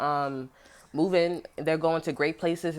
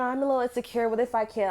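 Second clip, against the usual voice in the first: mock insecure voice; 5 semitones higher than usual. Mimicking insecure guy.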